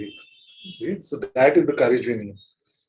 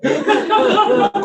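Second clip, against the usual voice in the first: loud high burst of laughter; real laugh; 6 dB louder than usual. Real, not acted. Teacher laughing hard at his own joke. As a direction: laugh out at the picture.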